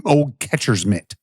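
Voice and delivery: slow deadpan punchline; straight-faced. Real, not acted. Drinker likening himself to old leather, slow deadpan. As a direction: draw the joke out slowly, straight-faced. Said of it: "I kept a straight face".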